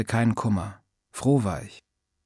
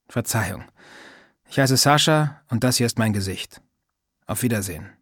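forced smile. Acted. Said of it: "mit einem aufgesetzten Lächeln".

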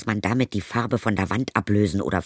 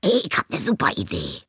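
higher, brash stepmother; 7 semitones higher, faster than usual. Acted. Stepmother proposes a crude idea to Zoe, brash. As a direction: pitch her up, pushy and crude. Stepmother's crass suggestion voiced.

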